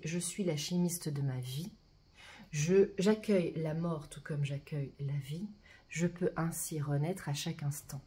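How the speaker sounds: deliberate affirmation reading; mantra recitation. Acted. Guide reads the alchemy card's sacred mantra, deliberate recitation. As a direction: declare it as a personal vow.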